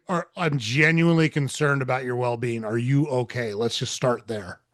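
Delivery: defuse him with low energy; calm and low-key. Retold or imitated. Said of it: "I match it with low energy".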